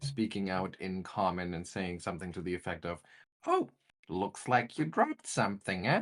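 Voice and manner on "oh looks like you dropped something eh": squeaky, condescending, sing-song little voice. Narrator recapping an unseen voice speaking in Common to the players: condescending squeaky little voice. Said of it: "condescending, squeaky little voice".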